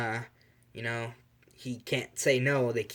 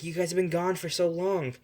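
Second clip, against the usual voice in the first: higher-pitched fretting mother; mild freak-out; 6 semitones higher than usual. Acted. Worried mother to her returning family, mildly freaking out. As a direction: fret in a raised pitch, lightly acted. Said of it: "she freaks out".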